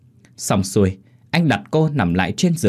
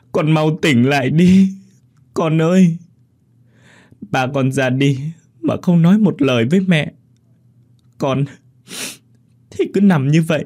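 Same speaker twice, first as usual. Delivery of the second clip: crying mother; 5 semitones higher than usual. Acted. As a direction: wail over the unconscious daughter. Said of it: "vừa khóc vừa nói".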